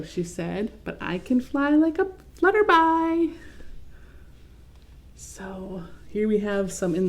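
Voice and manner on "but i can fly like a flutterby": little sister voice. Acted. Little sister's line in story.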